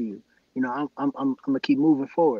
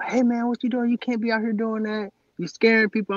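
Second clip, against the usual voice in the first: mock patrol cop voice, high and hollering; 9 semitones higher than usual. Retelling how a cop in a car spoke to him: imitating a cop yelling. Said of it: "he starts yelling at me".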